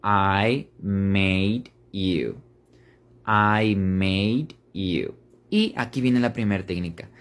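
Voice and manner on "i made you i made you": "I made you" said slowly, each word apart; slow unlinked "I made you"; slow separate words. Shown as a demonstration. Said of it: "las primeras tres palabras".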